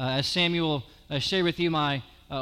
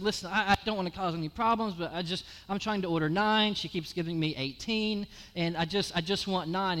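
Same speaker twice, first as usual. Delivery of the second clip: polite complaint; 5 dB quieter than usual. Retold or imitated. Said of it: "I expressed to her".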